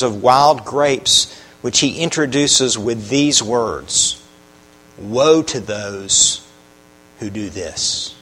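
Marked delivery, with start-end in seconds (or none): 5.0-8.1 slow, low, heavy "Woe to those". Shown as a demonstration. Preacher intoning a grave warning, slow and heavy. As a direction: drag out "Woe" low and solemn. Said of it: "the heaviness of that word".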